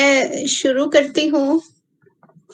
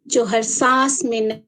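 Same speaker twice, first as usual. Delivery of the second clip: measured poem reading with long pauses; unhurried verse recitation; poetry recital. Acted. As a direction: recite line by line, letting each phrase land. Recites own poem aloud.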